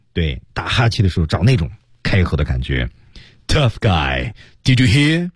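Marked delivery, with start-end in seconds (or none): 3.5-5.3 把力量用在气上往上推; breath-pushed taunt. Shown as a demonstration. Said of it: "把那个力量啊用在这个气上". (用气推上去的挑衅)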